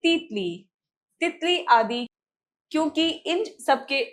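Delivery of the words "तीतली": तीतली with a long ee in the first syllable; wrong spelling read aloud. Shown as a demonstration. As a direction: stretch the first vowel of तीतली. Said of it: "अशुद्ध वर्तनी है".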